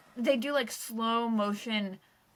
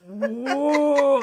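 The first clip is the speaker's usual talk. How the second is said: loud, long "whoa" showing huge size; drawn-out "whoa"; 7 dB louder than usual. Retold or imitated. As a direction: stretch out an awed, loud "whoa". Imitating huge talons.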